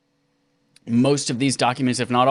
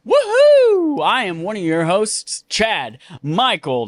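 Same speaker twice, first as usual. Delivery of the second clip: fake Southern accent; 10 semitones higher, 4 dB louder than usual. Host greeting listeners in a fake Southern accent. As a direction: put on a cowboy host accent, fake and proud. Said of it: "not my real accent".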